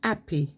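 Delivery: "happy" starting straight on the vowel; dropped H. Shown as a demonstration. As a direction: say "happy" without the H, as "appy". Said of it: "Instead of saying happy".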